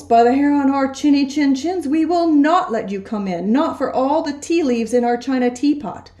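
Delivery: high, defiant little wolves. Acted. Little wolves defying the big bad pig, high and firm. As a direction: chant the refusal like stubborn little wolves.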